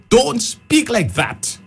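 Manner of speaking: slow, deliberate mock scolding; scolding adult. Children told off for speaking dialect, in a slow mock scold. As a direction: drag out each word like a stern teacher.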